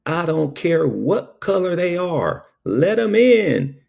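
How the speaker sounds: high, slow, fading last words; dying wife's last words. Retold or imitated. Husband hears his wife's strained last words. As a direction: breathe out her dying plea.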